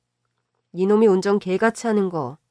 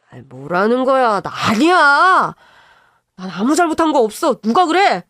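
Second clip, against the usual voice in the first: angry denial; 4 semitones higher, 7 dB louder than usual. Acted. Brother-in-law loudly denies.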